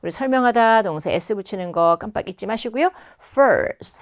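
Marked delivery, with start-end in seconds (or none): 3.2-4.0 "First" set apart, higher, with a stop after; pause after First. Shown as a demonstration. Teacher shows students the opener, pause after "First". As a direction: say "First" and hold a short pause. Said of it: "살짝 쉬어주셔야 됩니다".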